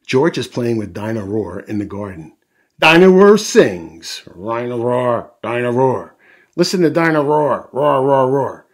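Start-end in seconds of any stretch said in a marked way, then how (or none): 2.8-8.7 toy dinosaur. A narrator's reading. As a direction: belt it like a singing toy dinosaur. Toy dinosaur singing and roaring.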